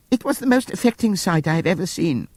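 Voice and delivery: high, mournful pig voice; sentimental pig. Acted. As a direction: put on fake grief. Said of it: "said Squealer".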